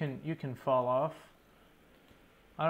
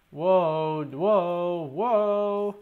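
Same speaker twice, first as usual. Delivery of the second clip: startled whoa; 3 semitones higher, 9 dB louder, much slower than usual. Real, not acted. Mob suddenly spawns beside him.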